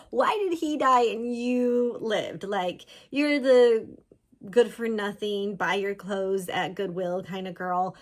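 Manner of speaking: slow, loud, scornful mock jeer; mean girl taunting the outcast; sneering gossip. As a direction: look down on her as you say it. Voicing judging townspeople.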